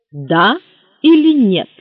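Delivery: clipped demand, rising high and loud on "или нет"; curt creaky voice. A narrator's reading. Official on the phone curtly demands a yes or no. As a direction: cut him off with a sharp question. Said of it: "отрезал скрипучий голос".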